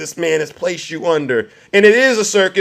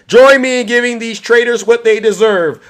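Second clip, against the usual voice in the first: louder, rousing announcer's call; rallying call; 4 semitones higher, 4 dB louder than usual. Real, not acted. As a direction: whip the crowd up into booing, stretching the last words. Rallying audience for boos.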